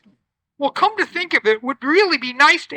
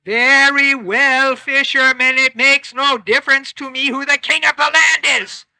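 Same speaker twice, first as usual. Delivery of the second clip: weary magic fish; 4 dB louder than usual. Acted. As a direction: grant it with a heavy sigh. Fish grants wish wearily.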